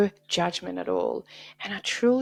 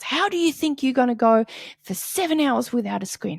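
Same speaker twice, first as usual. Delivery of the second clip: scolding mom; 5 semitones higher, 3 dB louder than usual. Retold or imitated. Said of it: "So she's like".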